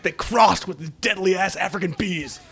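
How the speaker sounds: laughing mock general. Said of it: "Jeff Fahey, just, like, chomping on a cigar".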